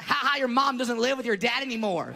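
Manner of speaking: high mock-laugh jeer; taunting comeback. Boy hitting back at his kindergarten bully, mocking. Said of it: "I looked at him and went".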